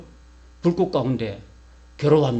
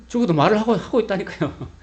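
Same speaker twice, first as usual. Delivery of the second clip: insistent; 7 semitones higher, 6 dB louder than usual. Real, not acted. Preacher insisting, repeating point.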